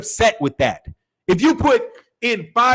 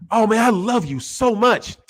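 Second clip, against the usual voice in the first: gushing love. Shown as a demonstration. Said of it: "See the tone?".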